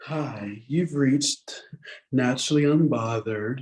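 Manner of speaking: very low, slow, sensual, sultry voice. Showing a voicemail greeting for random callers: sensual, sexy voicemail voice. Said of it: "I've made it sensual and sexy".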